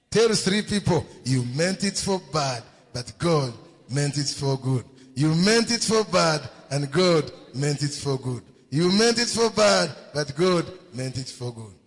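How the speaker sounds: loud, punched repetition for the congregation; forceful preacher's refrain; rousing preaching. Real, not acted. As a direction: hammer BAD, then ease down on good. Preacher has congregation repeat the line.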